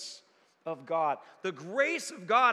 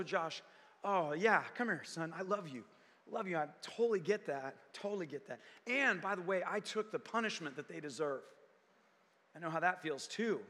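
tender Jesus voice; 2 semitones lower, 3 dB quieter than usual. Acted. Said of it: "and he goes".

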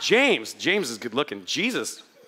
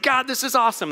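higher-pitched, mock-giddy delight; imitated excitement; 4 semitones higher, faster than usual. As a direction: imitate someone thrilled in prayer. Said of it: "Jesus gets excited".

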